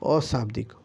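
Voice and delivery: अशाब्दिक with a clear अ in front; correcting the word. Shown as a demonstration. Teacher correcting a typo for students, saying अशाब्दिक. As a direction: fix शाब्दिक to अशाब्दिक by adding अ. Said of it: "अ लगा दीजिएगा यहाँ".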